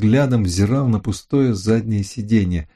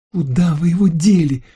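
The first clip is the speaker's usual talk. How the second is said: high shrill squeal of a question; shriek; 9 semitones higher than usual. A narrator's reading. Lucille demands where the swimsuit went, shrieking. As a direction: squeal it accusingly. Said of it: "взвизгнула она".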